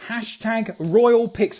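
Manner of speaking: "Hashtag Royal Pics" very slow, each word separate; slow dictation. Shown as a demonstration. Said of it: "the hashtag you are gonna use".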